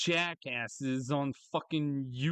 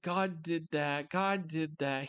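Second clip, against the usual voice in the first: mock pious believer; 3 semitones higher, slower than usual. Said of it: "when something good happens".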